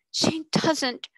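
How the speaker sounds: She doesn't. breathed without voice; intense whisper. Acted. Repeat dropped to whisper.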